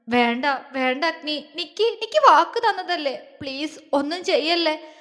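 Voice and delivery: mild tearful plea rising in pitch; tearful pleading. Acted. Girl pleads with her husband not to fight, tearful. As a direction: beg him to stop, half crying. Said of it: "കരഞ്ഞോണ്ട് പറഞ്ഞു".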